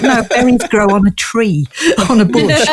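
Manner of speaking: retold correction with comic insistence; mock exasperated correction. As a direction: explain the obvious, half laughing. Retold correction of puzzled kids.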